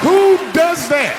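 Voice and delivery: high, slow indignant yell; outraged shout. Real, not acted. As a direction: demand it of the crowd, slow and loud. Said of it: "outraged at his wife".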